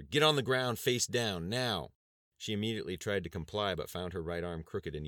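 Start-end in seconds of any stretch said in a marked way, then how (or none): 0.0-1.9 shouted command, higher and louder; shouted order. A narrator's reading. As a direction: order her down forcefully. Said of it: "One of the men shouted at her".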